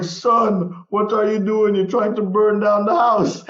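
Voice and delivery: put-on angry dad with a West Indian accent. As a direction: scold in a West Indian accent, slowing at the end. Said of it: "He only ever had it when he was upset".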